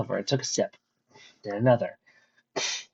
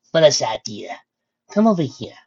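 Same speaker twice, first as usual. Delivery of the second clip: calling; 3 semitones higher, 4 dB louder than usual. Acted. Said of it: "Freya called".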